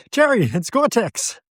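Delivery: high, whiny Seinfeld George impression; Seinfeld's George. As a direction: squeak it like George Costanza. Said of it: "If you remember that Seinfeld".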